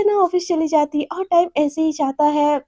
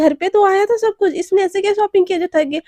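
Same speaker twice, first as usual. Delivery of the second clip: rude snap; 5 semitones higher than usual. Acted. Naina snaps at her mother over breakfast, irritated. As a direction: lash out rudely.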